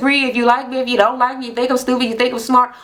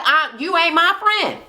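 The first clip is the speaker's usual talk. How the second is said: high-pitched acted put-down; retold snub, pitched up; sassy retort; 6 semitones higher than usual. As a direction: imitate a friend snubbing another. Acted quarrel between two friends.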